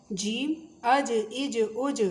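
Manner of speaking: اج with the ج bouncing loose; qalqala bounce. Shown as a demonstration. Teacher demonstrating qalqala on جیم. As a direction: jolt the جیم at the end. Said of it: "بڑے مزے کی آواز نکلتی ہے ایسے".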